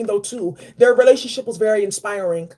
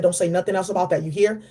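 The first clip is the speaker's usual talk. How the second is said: lower, firm fatherly warning; low stern elder voice; 5 semitones lower than usual. Retold or imitated. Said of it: "He said".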